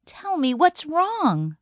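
"Tell me what's wrong" drawn out slowly, pressing; slow insistent repeat. Acted. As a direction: ask slowly, insisting this time. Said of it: "Shirley Ann asked again".

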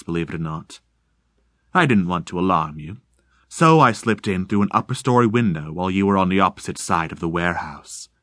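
calm, measured, faintly ghostly; eerie deep voice. Acted. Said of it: "sounding both deep and insubstantial".

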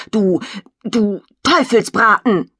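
slow, drawn-out angry insult. Acted. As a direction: spit the insult out slowly. Angry brother insults sister.

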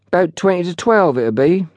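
put-on high-pitched, sulky young porter. A narrator's reading. Young porter answers his boss, sulky. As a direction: answer grudgingly in a lad's voice. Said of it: "said Wally sulkily".

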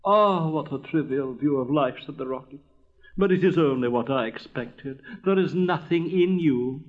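disdain turning to melodramatic dread; pompous, gloomy rocket. Acted. Rocket imagining disaster for prince and princess, pompous. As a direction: sneer loftily, then spin out a tragedy.

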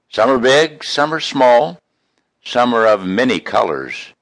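lilting rhyming recital, light and cheerful; poem recitation. Acted. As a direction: read it like a folksy verse to friends.

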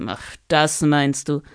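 a hint of a troubled dragon, slow; worried dragon. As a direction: sigh it out like a worried old dragon. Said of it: "legte die Stirn in Sorgenfalten". (leicht besorgter Drache, langsam)

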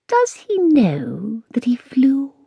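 slow, hushed, secretive whisper; a wise old cat whispering to the girl. A narrator's reading. Cat Lilyleaf's voice.

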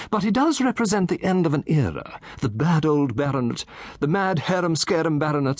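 put-on a chatty old gentleman relishing his tale; Satterthwaite. Satterthwaite explains, amused.

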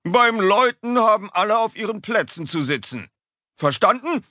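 high, sharp scolding teacher; stern teacher. A narrator's reading. Teacher scolding the noisy class, high and sharp. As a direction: snap at the class from the front. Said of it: "Wütend schlägt er".

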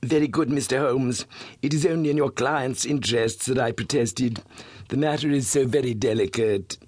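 a hint of a sly blackmailer; lightly voiced silky villain; smooth suave voice. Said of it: "His voice was as smooth and suave".

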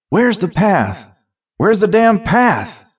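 high, drawn-out desperate questions; rising panic. A narrator's reading. Thief lost in brittle stalks, rising panic. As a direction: build slowly from alarm to desperation.

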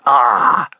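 a playful jump-scare cry; mock startle. Father teasing Taffy: playful mock startle. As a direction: ham up a little ah. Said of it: "jumped out from behind a tree and said".

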